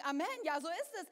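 mock congregation response; prompting Amen. Shown as a demonstration. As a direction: show them the Amen to answer with. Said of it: "ihr könntet ja eigentlich jetzt sagen".

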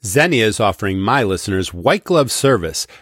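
upbeat sponsor read. Acted. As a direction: persuasive radio spot. Host reads sponsor ad.

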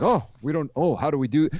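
hammed-up helpless fluster; shocked dowager. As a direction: dither like a scandalised dowager. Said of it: "like a shocked dowager".

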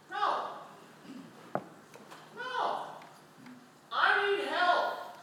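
desperate refusal. Acted. Blind man refuses the crowd, high and desperate. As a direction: refuse to be hushed, begging. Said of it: "he says".

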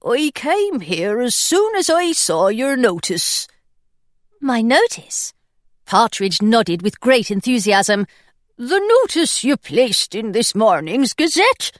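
a timid pirate introducing himself; thin anxious voice. Acted. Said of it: "His voice was thin and anxious".

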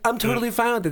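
high mock girlfriend voice; high-pitched, reassuring girly imitation; agreeable girlfriend.

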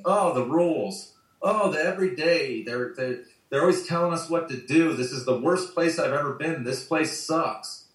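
grumbling. Retold or imitated. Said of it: "Always grumbling and griping".

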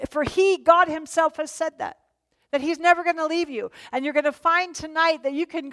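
preacher exhorting the congregation; fervent preaching. Real, not acted. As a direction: build to the promise. Preacher climax of promise.

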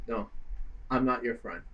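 very soft, mock menacing aside; hushed refusal. Fighter turning on her opponent in a staredown, hushed refusal. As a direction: drop to a hushed, cold undertone.

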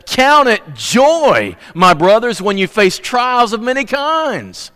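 slow, high, drawn-out emphatic quote. Retold or imitated. Preacher voicing James urging his brothers, emphatic and slow. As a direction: lean hard into each phrase of the apostle's charge. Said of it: "James is so emphatic".

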